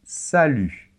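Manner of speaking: "Salut." clearly, with the French U; crisp model "Salut."; model word. Shown as a demonstration. Teacher pronouncing "Salut." for a learner. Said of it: "il se prononce de cette manière".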